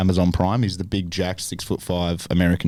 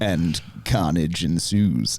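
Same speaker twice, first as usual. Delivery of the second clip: movie trailer voice; 3 semitones lower, much slower than usual. Pretend. Teasing the film plot like a trailer.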